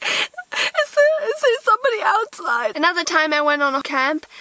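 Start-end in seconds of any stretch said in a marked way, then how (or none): 0.0-2.8 put-on high frightened little girl voice; scared whimper. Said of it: "crying all night long".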